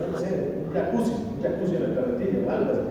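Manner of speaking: fast joking whisper; quick whispered aside. Real, not acted. Preacher's joke about a wheelbarrow, quick whisper. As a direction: toss off the joke under your breath, fast.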